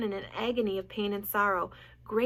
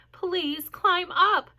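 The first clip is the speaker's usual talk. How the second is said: desperate; 9 semitones higher, 10 dB louder than usual. A narrator's reading. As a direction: beg in desperation. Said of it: "said Wilbur in desperation".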